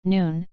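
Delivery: "Noon" said plainly, with an N at both the start and the end; Korean word demo. Shown as a demonstration. Teacher giving another Korean example word, careful pronunciation. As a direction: model "Noon" for learners. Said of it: "Another example".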